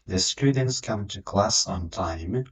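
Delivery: The students come to class on time, whole and very slow; slow model sentence. Shown as a demonstration. Teacher to students, whole sentence slow. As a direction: read the whole sentence slowly. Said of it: "teacher models the whole sentence".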